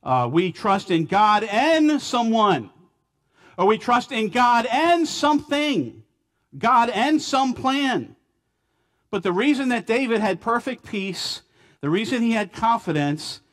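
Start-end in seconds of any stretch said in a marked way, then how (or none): 0.3-8.1 "and" punched and pitched high after God; stress on AND. Real, not acted. Preacher warning against trusting God plus something, stressed "and". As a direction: lean hard on each "and", voice lifted.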